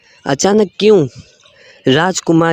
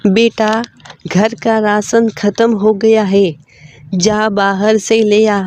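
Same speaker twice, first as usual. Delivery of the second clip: a lightly raised, gentle mother's voice; 5 semitones higher than usual. Acted. Mother asking her son to fetch rations, lightly higher voice.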